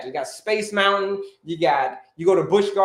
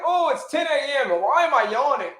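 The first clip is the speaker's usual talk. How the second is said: tired office worker; 6 semitones higher than usual. Retold or imitated. Office worker yawning at ten AM.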